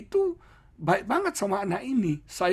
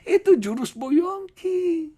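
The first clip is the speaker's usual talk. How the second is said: playful; 13 semitones higher, 6 dB louder, slower than usual. Acted. Preacher jokes about Bu Yongki's trick.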